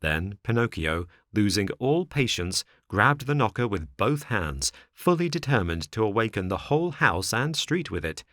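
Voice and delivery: ordinary delivery, nothing marked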